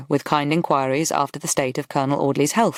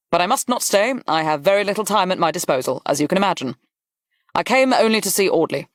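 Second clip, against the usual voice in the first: lightly voiced Duke, high at each fresh thought; earnest Duke; 3 semitones higher than usual. Duke owning his losses to Worth, earnest. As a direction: speak earnestly, then briskly take leave.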